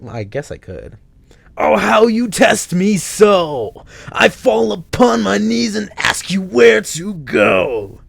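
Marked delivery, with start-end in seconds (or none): 1.6-8.0 very high, slow, loud sung-out pleading; theatrical lament. Acted. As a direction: ham up a tragic plea. Dramatic lament verse.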